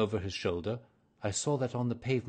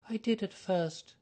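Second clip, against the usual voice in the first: put-on higher, earnest young woman's voice; nervous young lady; 10 semitones higher, slower than usual. A narrator's reading. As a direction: voice her as an eager, flustered client. Mary Sutherland voiced by narrator.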